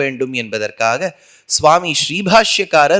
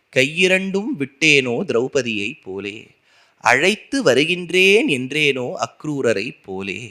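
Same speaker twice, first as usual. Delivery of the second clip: measured, deliberate listing of each saying; slow devotional litany, every line given its own weight; slow litany recitation; slower than usual. Acted.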